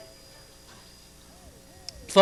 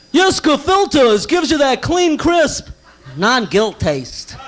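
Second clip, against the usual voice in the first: ad announcer; 4 semitones higher, slower than usual. Pretend. Mock cigarette commercial.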